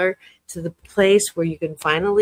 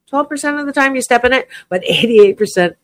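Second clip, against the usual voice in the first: laughing aside; 6 semitones higher, 7 dB louder, faster than usual. Real, not acted. Joking aside about her percentages.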